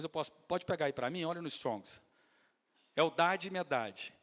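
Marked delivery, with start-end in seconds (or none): 3.0-4.1 slow names again. Shown as a demonstration. Repeating the names slowly.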